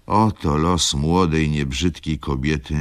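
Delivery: put-on old lady exclaiming. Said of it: "zawołała starsza dama".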